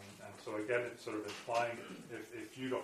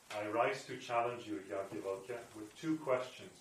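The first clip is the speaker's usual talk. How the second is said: warrior's challenge; 4 dB louder than usual. Acted. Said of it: "much as a fierce warrior".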